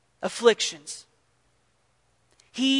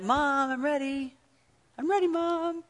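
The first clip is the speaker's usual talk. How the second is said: put-on eager child; 4 semitones higher, 8 dB quieter than usual. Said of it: "You're like".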